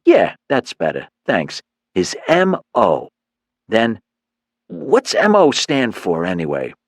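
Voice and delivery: swaggering gang leader laying out the deal; cocky thug. Acted.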